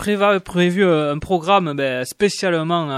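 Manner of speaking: talking with food in his mouth; words mushed by a mouthful; mouth full. Real, not acted. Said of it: "on t'a jamais dit qu'il fallait pas parler la bouche pleine". (la bouche pleine)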